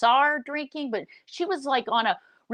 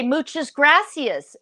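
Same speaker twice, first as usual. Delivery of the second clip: mock Spanish; 5 semitones higher, 5 dB louder, slower than usual. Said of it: "and she would say".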